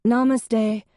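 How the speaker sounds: a high, loud sing-song greeting; calling back. Acted. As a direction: call it down from upstairs. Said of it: "Ange called".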